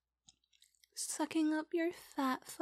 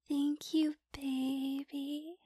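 usual speaking voice

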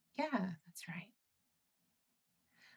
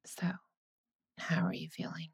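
whisper. Acted. Checking on high partner.

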